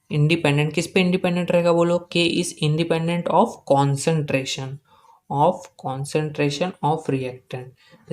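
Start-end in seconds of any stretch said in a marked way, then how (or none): 2.1-8.1 slow, measured phrases, dropping softer at the end; slow dictation. Real, not acted. Teacher completing the rule for students, slow dictation.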